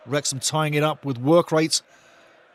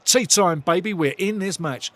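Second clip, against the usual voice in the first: excited celebration; 3 semitones higher than usual. Real, not acted. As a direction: crow it out as your team scores. Team scores, commentator celebrates.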